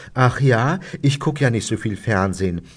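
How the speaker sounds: mildly reproachful mock mother. School mother to a TV performer, mildly reproachful. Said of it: "sagt dann Joppes Mutter vorwurfsvoll".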